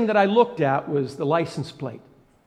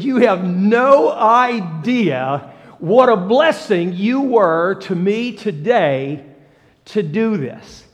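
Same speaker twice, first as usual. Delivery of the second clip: slow, heartfelt thanks; grateful; 4 dB louder, much slower than usual. Retold or imitated. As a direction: draw it out, meaning every word. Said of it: "I was being kind and gracious and just grateful".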